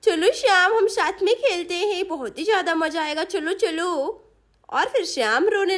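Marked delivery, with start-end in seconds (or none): 0.0-3.9 lightly voiced babyish child, eager; playful little girl. Chinki invites little Shyam to play, playful child voice. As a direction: coax a baby brother into a game.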